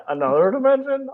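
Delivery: stiff robot voice saying "another dimension". Pretend. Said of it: "You have to say it in a robot voice".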